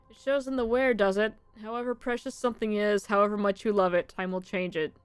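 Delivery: lightly voiced wistful medium; gentle old fortune teller.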